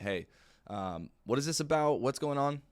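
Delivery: mildly wary caller demanding answers; suspicious client. Retold or imitated. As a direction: prospect pushing back on the cold call, mildly wary. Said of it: "the common rebuttal".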